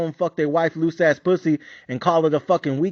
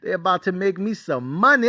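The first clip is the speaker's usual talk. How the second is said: excited whoop. Retold or imitated. Bettor acting out his excitement at a big lead, giddy. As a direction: act out giddy anticipation. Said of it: "I'm excited. I'm about to be like".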